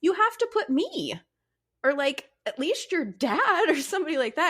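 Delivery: high, incredulous pleading with husband; exasperated plea. Retold or imitated. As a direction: plead with him, high and disbelieving.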